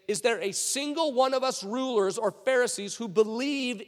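emphatic, scornful Pharisee; mocking. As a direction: pour contempt on the foolish crowd. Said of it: "they're mocking the temple guards".

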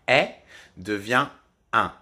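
est puis un, voyelle orale puis nasale; démonstration du son. Shown as a demonstration. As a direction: passez de est à un par le nez. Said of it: "on utilise le nez". (est nasalisé en un)

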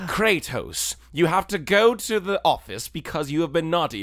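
put-on shouty teacher scolding a naughty kid; mock stern principal yelling.

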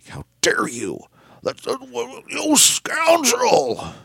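hammed-up scandalised gasp of indignation; mock outrage. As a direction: play the affronted victim, voice leaping high at the end. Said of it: "Morrow looks, like, visibly, like, disturbed".

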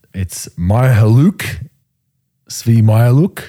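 "Mihalouk" said slowly, syllables drawn out; careful name pronunciation. Shown as a demonstration. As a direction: sound out "Mihalouk" slowly and deliberately. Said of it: "Fuck that one up".

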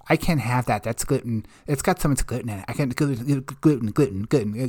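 quiet, whiny, complaining mock voice; whiny gluten-free diner. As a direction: mimic a fussy whiner, softly. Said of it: "she was bitching about it".

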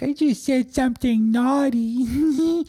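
very high, slow, giggly mimicry; put-on coy falsetto ending in a giggle; mock tee-hee naughtiness. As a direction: tease it out like a naughty little confession. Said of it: "tee-hee laugh, like".

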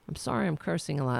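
rushed, offhand apology; quick apology. Real, not acted. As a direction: toss the sorry off fast. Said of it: "Am I sorry?".

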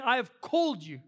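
lightly voiced God, declaring the calling firmly. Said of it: "God saying".

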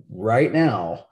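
a light imitation of an emphatic commentator; Adam Wild. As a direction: lightly mimic a pundit's punchy catchphrase. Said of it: "doing the Adam Wild right now thing".

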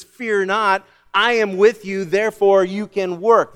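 rousing assurance. Acted. Preacher voicing God's reassurance.

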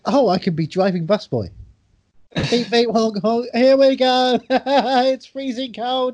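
high goofy bus-driver voice with honks; silly clown. Retold or imitated. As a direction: play a daft clown driving a bus. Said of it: "you'd be like".

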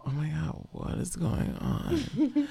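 a hint of a groggy, slow friend; sleepy Mink impression. Mink waking up soaked, lightly voiced groggy slow. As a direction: drag the question out half-asleep. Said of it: "I like that Mink impression".

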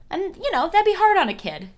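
high, sarcastic sympathy; mock sympathy. Real, not acted. Sarcastic aside.

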